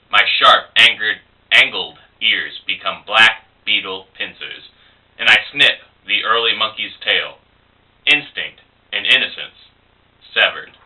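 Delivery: measured poetry reading with pauses between phrases; poem recital. Acted. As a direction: recite it deliberately, line by line. Reads their poem aloud.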